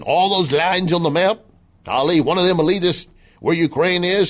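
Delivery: high, hammed-up Southern complaint; exaggerated Southern accent; Southern impersonation. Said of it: "he continues his Southern impersonation".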